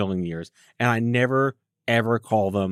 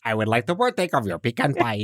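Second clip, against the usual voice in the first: hammed-up fancy restaurant voice; stilted posh request; mock posh diner. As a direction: order pie like a snooty aristocrat. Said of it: "talk like this".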